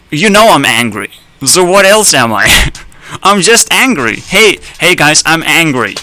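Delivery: playfully angry self-introduction; hammed-up anger. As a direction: announce your anger with a laugh breaking in. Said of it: "that's how you introduce yourself".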